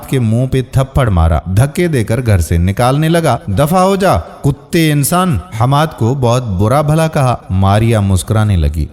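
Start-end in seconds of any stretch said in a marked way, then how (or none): 3.5-5.4 higher, then slow contemptuous insult; angry dismissal. Acted. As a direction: drive him out with scorn. Uncle throws Hamad out. (غصے سے دھتکارتے ہوئے)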